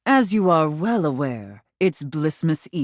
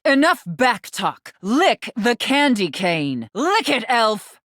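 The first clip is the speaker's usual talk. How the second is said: stern order; 5 semitones higher than usual. Acted. Santa orders the elf.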